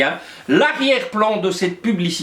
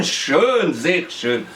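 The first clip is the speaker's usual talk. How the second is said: put-on German accent; 3 semitones lower, much slower than usual. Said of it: "J'ai perdu mon accent".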